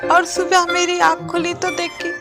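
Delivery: mild tearful lament. Acted. Goat mother telling of her missing child, mildly tearful lament. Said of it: "तुम क्यों रो रही हो".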